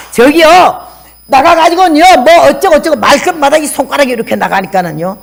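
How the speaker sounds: replaying her old brash wife voice; retold younger self. Retold own pointing habit scene. (예전 자신의 높은 목소리 흉내)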